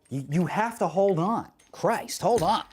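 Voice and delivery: exasperated. Real, not acted. Streamer telling viewers to wait, exasperated.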